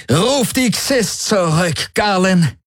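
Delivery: high, slow, forceful order; thundering command. A narrator's reading. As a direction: thunder it out, drawing the words long. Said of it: "donnerte Ylana".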